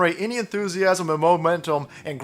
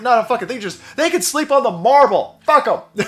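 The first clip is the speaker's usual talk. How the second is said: louder, brushing-off officer voice; mock dismissive official; 5 semitones higher, 5 dB louder than usual. Vlogger mocking officials about troop cots, loud and dismissive. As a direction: wave them off like a careless commander. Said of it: "They say".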